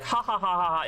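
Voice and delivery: mocking ha-ha-ha; mock laughter. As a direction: imitate people laughing at a tired joke. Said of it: "everybody's like".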